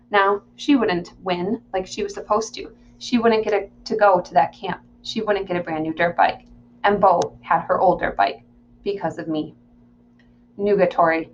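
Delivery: measured audiobook reading; story narration. Acted. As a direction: read the story aloud in the narrator's voice. Reads the novel aloud.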